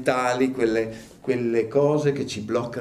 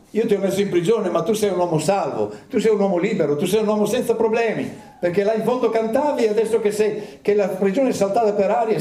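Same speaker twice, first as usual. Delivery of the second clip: much higher, rising wonder; amazed jailer; 8 semitones higher than usual. Acted. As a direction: pour it out in astonished admiration. Jailer marvels at Paul.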